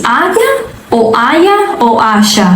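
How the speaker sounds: "haya" three ways, changing the Y sound each time; variant Y pronunciations. Shown as a demonstration. Teacher asking students which "haya" is right, varied Y pronunciations. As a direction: contrast each "haya" by its middle consonant. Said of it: "esa pronunciación de la Y en español".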